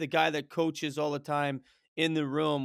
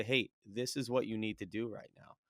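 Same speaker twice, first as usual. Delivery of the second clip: calm, low and a bit softer, steady and unhurried; 3 semitones lower, 5 dB quieter than usual. Retold or imitated. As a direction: settle the wrestler down with a quiet, even coaching voice. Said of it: "in a very calm voice".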